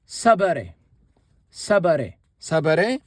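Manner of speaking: Sabare said three times, clearly, falling then rising; repeating the word. Shown as a demonstration. Teacher modelling Sabare for learners to repeat. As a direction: drill Sabare for the class. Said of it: "this is the gerundive".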